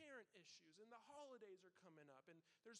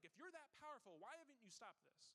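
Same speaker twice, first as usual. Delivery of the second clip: mildly raised, higher accusing plea; half-hearted angry complaint to God; 3 semitones higher than usual. Retold or imitated. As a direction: imitate someone demanding answers from God, a touch heated. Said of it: "get angry at God".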